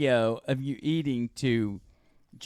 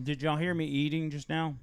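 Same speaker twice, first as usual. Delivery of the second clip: mouth full. Real, not acted. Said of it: "I hear you talking with your mouth full".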